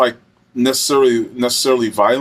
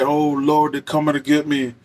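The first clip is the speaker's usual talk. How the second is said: slightly raised, panicked pleading to the Lord; desperate pleading; 3 semitones higher than usual. Retold or imitated. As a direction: plead like a man who thinks he's being abducted. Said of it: "he just kept, like, hollering that stuff".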